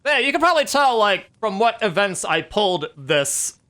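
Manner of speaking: excited aside. Real, not acted.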